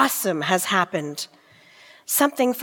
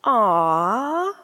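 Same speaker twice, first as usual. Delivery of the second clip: tender aww. Acted. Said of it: "they said".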